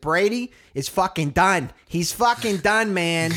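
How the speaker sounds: hammed-up frustrated Patriots fan; mock fan rant. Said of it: "this one guy's like".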